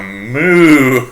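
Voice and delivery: drawn-out imitation cow moo. Imitating the moaning cows.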